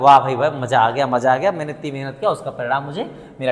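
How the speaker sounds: delighted. Shown as a demonstration. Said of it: "तो क्या कहते हैं".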